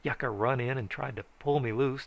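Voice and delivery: ordinary delivery, nothing marked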